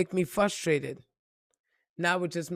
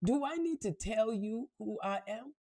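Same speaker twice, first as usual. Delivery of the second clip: put-on ten-year-old self; 3 semitones higher, 5 dB quieter than usual. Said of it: "I was like".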